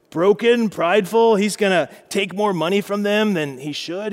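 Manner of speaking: a hammed-up God taking Samuel to school; God lecturing. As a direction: warn Samuel like an exasperated boss.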